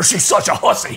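mock southern preacher; scandalized congregation-leader voice, put on. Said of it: "You sound like a preacher".

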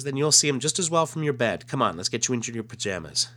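lightly voiced babysitter hurrying a child along; coaxing babysitter. Reads Terry sending Clark to bed.

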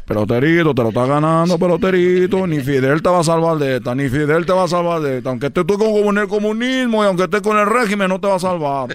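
loud, lightly voiced comic dad; scolding father. Father threatening his son in the story, mild loud scolding.

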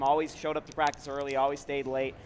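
chewing a straw while talking; straw in teeth. Real, not acted. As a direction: talk around a straw in your teeth. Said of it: "Stop chewing on your straw".

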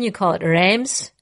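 Reims said the American way, as "reemz". Shown as a demonstration. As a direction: tells her cohost how Americans say the city, as "reemz". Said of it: "if you're an American".

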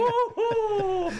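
high excited whoop with a laugh. Real, not acted. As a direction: let out a gleeful woo-hoo. Whooping cheer.

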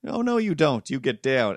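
scolding the cat. Retold or imitated. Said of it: "scolding the cat".

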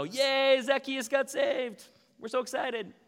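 the crowd that is not tweeting joy, mock-cheering sarcastically. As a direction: ham up a fake celebration.

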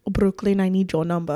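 roughly imitated Spanish accent; mock Spanish-accented man. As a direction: put on a loose Spanish accent. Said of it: "Spanish accent".

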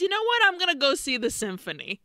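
jumps high on you know what, then settles; a hammed-up count who suddenly decides; Dracula's sudden whim. Dracula voiced in recap.

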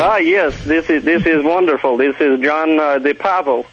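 lightly faked Russian accent; a hint of put-on Russian; mock Russian accent. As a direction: play at being Russian, just messing around. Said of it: "almost as good accent as I have".

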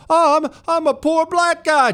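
high whiny mock victim voice; high mocking whine. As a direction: mimic the mayor's whining. Mocking mayor's victim talk.

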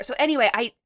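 rough, worn-out voice; hoarse voice. Real, not acted. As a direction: talk through a tired, hoarse throat. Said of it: "Your voice sounds like it's seen better days".

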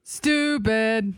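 signature "stupid". Shown as a demonstration. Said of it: "gonna do the stupid".

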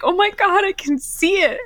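amazed, voice lifted; retold amazement. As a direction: replay being thrilled to finally see. Retelling amazed reaction at eye test.

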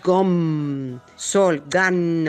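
gom, sol, gan said with click consonants popping inside the words; Bushman greeting with clicks. Shown as a demonstration. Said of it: "si te quiero decir hola en bosquimano".

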